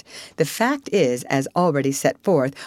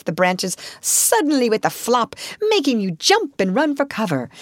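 higher-pitched, animated storyteller Otter; cheerful Otter; 5 semitones higher than usual. Acted. Otter tells Rat of the snowy journey, cheerful. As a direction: tell the adventure with lively swoops.

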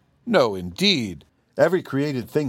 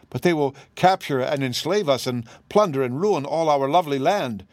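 higher, alarmed protest; disturbed exclamation; 5 semitones higher than usual. Acted. The wizard protests to the Tin Woodman, mildly disturbed. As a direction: protest in rising dismay. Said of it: "exclaimed the wizard, greatly disturbed".

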